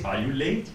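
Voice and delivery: "late" gliding up easily; effortless rise. Shown as a demonstration. Teacher showing an easy question, effortless rise. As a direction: let "late" rise without special effort. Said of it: "I didn't even make a special effort".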